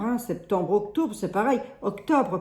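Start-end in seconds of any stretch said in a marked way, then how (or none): 1.8-2.4 Lorraine accent slip. Real, not acted. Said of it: "avec mon accent lorraine".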